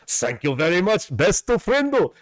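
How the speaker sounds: high squeaky cartoon voice; anime character quote. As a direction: sing it out like an anime kid. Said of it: "the Forgiven John Deku from My Hero Academia doing the".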